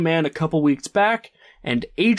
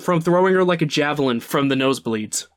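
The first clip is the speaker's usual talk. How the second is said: laughing. Real, not acted.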